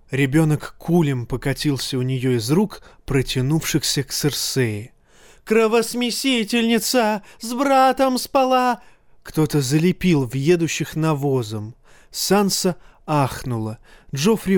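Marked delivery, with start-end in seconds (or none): 5.5-8.8 screaming. A narrator's reading. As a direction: shriek the insults, stretched out. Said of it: "и она завопила".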